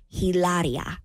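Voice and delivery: Hilaria said with Spanish vowels, silent H; Spanish-style name. Retold or imitated. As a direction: say Hilaria the Spanish way, as she calls herself. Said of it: "she calls herself".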